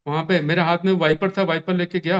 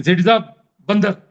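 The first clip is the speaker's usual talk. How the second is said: retold cry for help; 4 dB louder than usual. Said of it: "madam जी चिल्लाने लगी जोर से".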